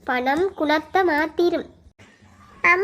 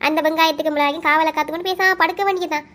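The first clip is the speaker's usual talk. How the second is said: scornful scolding. Acted. Sister berating the one begging for help, scornful. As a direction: berate a poor relation who wants too much.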